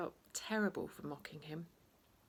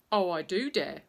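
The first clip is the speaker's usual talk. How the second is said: defiant retort; 7 dB louder than usual. Acted. Defiant reply.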